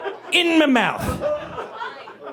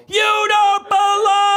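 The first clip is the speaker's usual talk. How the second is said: high, slow, louder yell; mock yell; 13 semitones higher, 4 dB louder, much slower than usual. Owner yelling at dog, loud drawn-out mock yell. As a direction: belt the scolding out. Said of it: "just when I yelled".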